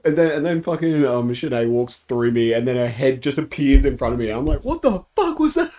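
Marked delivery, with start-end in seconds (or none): 4.7-5.7 very high, loud startled squeal; retold freak-out. Player after a head appears in front, high panicked squeal. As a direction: shriek it in mock panic, half laughing. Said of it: "And then I'm freaking out".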